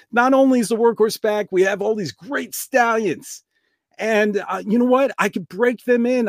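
gushing like everything's suddenly saved; overjoyed son. Retold or imitated. Son runs to his dad about the stallions, high overjoyed gushing.

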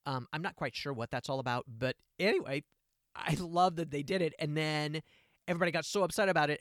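normal talking voice

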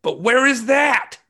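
high, slow, bewildered whine; mock clueless user asking; confused user. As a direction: squeak it out lost and confused. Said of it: "And they're like".

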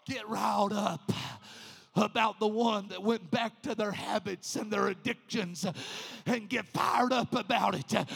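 "Get riled up" now at full speaking level, pressed out. Shown as a demonstration. Preacher now stirring the church up, back at full voice. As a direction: bring it back up, stirring them. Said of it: "no need to get riled up".

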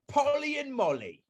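high voice cracking into laughter; laughing title. Pretend. Friend renames Romeo and Juliet while laughing, high and breaking.

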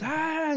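high, drawn-out "aah" of anger; mock angry cry. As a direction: imitate a mad guy's high yell, held back in volume. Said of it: "he got all mad".

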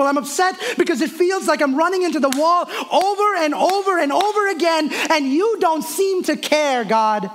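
a complaint that builds from tight to pleading; upset prayer building. Retold or imitated. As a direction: pour out the frustration to God, rising as it goes. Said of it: "I told the Lord".

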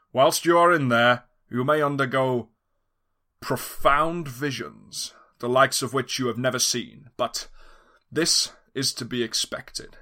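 villain reveal. Acted. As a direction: unveil yourself like a gloating villain. Villain explains treatment.

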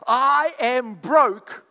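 slow, drawn-out whine of a complainer; a hint of a sulky believer; mock complainer. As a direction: drag out the self-pity.

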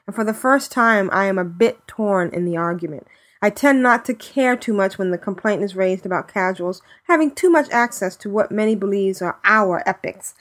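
measured reading from a written letter; email read-out. Real, not acted. Podcast host reading a listener's email, reading aloud.

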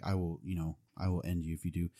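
quiet, lightly acted threat; intimidating. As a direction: drop the volume for a retold threat. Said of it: "just really intimidating".

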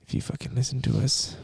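whisper yelling. Pretend. Threat whispered to a kid.

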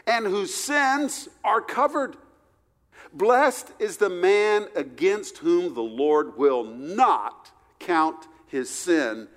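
scripture reading. Acted. Reads Romans four aloud.

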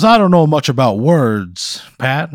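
high, loud blustery cartoon rooster voice; Foghorn Leghorn. Scene: the time-travelling quilt introduces itself to Pat, in a blustery cartoon rooster voice. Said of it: "sounds like Foghorn Leghorn".

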